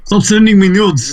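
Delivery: high mocking imitation of Zemo; lightly voiced Zemo, teasing. Quoting Zemo, mock voice.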